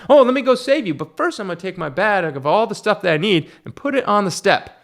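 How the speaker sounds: mock paramedic. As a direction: sneer it out as a clueless medic. Mocking a careless paramedic.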